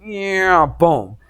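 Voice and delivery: rising whine, then a thud; stretched "nyeeow", then boom; imitated falling noise. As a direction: mimic a sudden slip and drop. Imitates sudden flip upside down.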